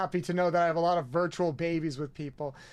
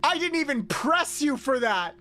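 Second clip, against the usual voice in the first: laughing disbelief; 6 semitones higher, slower than usual. Real, not acted. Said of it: "I'm actually impressed".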